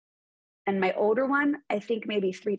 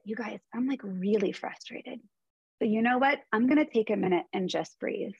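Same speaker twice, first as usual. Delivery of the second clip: calm compassionate tone. Retold or imitated. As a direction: gently tell the kids you're frustrated. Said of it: "in this tone of voice, compassion".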